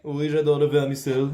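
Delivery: j'adore le vermicelle, said like a bourgeois; posh accent. Shown as a demonstration. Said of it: "L'accent bourgeois".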